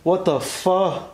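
loud, firm voice to the ghost; loud address to spirit. Real, not acted. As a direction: speak up so the spirit hears you.

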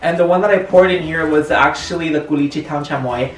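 tipsy, slightly slurred speech; slurring words. Real, not acted. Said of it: "I feel like I'm slurring my words".

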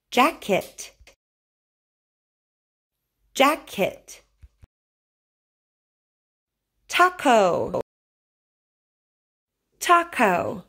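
crisp K in the middle of each word; over enunciating. Shown as a demonstration. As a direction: model each word clearly for a child. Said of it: "Repeat after me".

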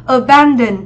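"Abandon" with an open æ in the middle syllable; flat e vowel. Shown as a demonstration. Teacher giving option B to students, "Abandon" with a flat e. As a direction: say "Abandon" with "ban" as in "cat". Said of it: "Âm e bẹt".

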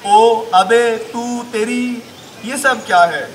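slow, drawn-out comic verse; mock-poetic Urdu recital; mushaira recitation. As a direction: stretch the phrases and pause between them. Recites his parody verse.

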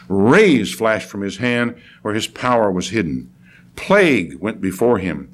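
measured proclamation in weighty phrases; stately Bible reading, falling at the close; dramatic scripture reading. Acted. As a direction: proclaim God's majesty phrase by phrase. Reads scripture aloud.

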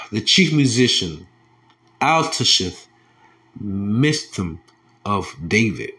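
slow preacher's reading of the psalm; measured preaching cadence; scripture reading. Acted. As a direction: proclaim the verse to the congregation. Reads psalm to congregation.

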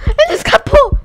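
high-pitched cry of disbelief; startled exclamation. Real, not acted. Player seeing the captive escape, startled exclamation. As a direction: squeak it out, surprised. Captured player gets away.

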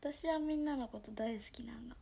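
hushed Toyama-dialect confession. Shown as a demonstration. Streamer confesses to her viewers, soft Toyama dialect. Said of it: "富山弁でやってみっか".

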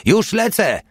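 very high-pitched called reply; eager call-out. A narrator's reading. Porta answering the old man's order, high call-out. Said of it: "zawołał Porta".

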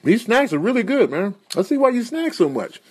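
high, chatty enthusiasm; overly casual cover-up. Acted. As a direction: pretend it's only about the food. Covers up seductive aside.

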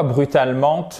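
"brutalement" with the silent final T pronounced; sounded final T. Shown as a demonstration. Teacher questioning silent letters in French, final T sounded in "brutalement". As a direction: say the written T ending "brutalement". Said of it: "je prononcerais pas le T".

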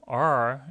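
thick, curled English R; "R" with tongue curled back, oily-sounding; greasy R. Shown as a demonstration. Teacher shows how greasy it sounds, greasy R. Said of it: "R 발음이 좀 느끼한 발음이에요".

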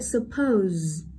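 suppose with POSE stressed and stretched; light su, then lean on POSE in suppose; careful model of suppose, weight on the end; stress on second syllable. Shown as a demonstration. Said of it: "trọng âm rơi vào âm tiết số hai".

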